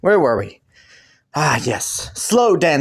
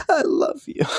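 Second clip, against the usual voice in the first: high pitched; 11 semitones higher than usual. Shown as a demonstration. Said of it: "saying it or hearing you say it".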